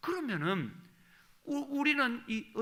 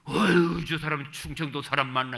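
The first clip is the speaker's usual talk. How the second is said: nagging mother; 10 dB louder than usual. Retold or imitated. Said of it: "잔소리할 때는 따발총입니다".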